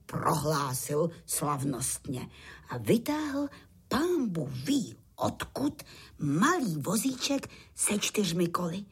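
usual speaking voice

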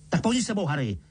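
lightly voiced uncle calling from the kitchen; Vernon calling. A narrator's reading. Uncle calls Harry from the kitchen, high call. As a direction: call out high from another room. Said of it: "křikl strýc Vernon".

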